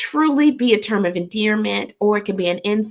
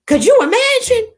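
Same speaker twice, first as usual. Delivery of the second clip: surprised; 6 dB louder than usual. Real, not acted. Reacting to scary story.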